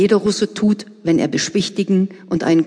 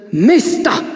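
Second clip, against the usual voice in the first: sepulchral voice; 5 semitones higher, 4 dB louder than usual. Acted. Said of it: "sagt mit Grabesstimme".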